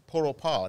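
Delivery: Port-au-Pas ending on an open "pah"; French pronunciation. Shown as a demonstration. Host demonstrating the capital of Haiti, French pronunciation. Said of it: "how you say it with a French".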